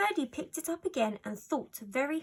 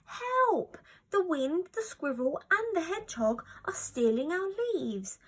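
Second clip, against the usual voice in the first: frenzied cry; 6 semitones higher than usual. A narrator's reading. Little fox crying out as the animals steal leaves, frenzied. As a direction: shout for help, frenzied. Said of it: "cried a frenzied Ferdy".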